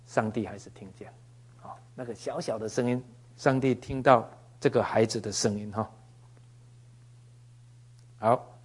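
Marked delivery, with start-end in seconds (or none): 1.6-3.0 whispered, unvoiced small voice. Shown as a demonstration. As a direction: breathe it like a faint child's cry. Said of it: "那个小小声的哈".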